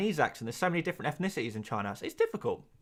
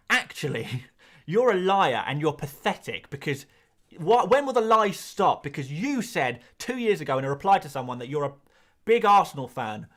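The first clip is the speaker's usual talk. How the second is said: hammed-up indignant online accuser; mock outrage, loud on the key words; mock accusing; 5 dB louder than usual. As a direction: imitate an outraged tweet, punching the accusations loudly. Acting out an accuser's tweet.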